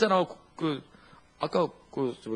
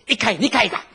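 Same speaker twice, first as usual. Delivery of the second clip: higher, louder mock Gyeongsang mumble; Gyeongsang dialect; 6 semitones higher, 7 dB louder than usual. A preacher mimicking a Gyeongsang man's baffling reply, mock dialect. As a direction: rattle it off in thick dialect. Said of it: "경상도 사람이".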